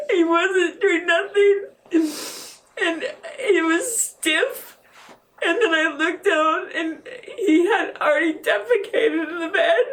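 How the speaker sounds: tearful, holding back sobs; telling it through real tears; a voice wet with grief; crying. Real, not acted. Mother recounts finding son dead.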